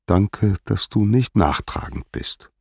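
gently moved thanks, slightly lifted pitch; understated, heartfelt gratitude; touched. Acted. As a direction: sound grateful and touched. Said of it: "sagte Hera gerührt".

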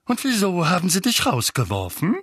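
angry interrogation; spitting with anger. A narrator's reading. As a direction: spit the question out furiously. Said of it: "bevor er wieder losspuckte".

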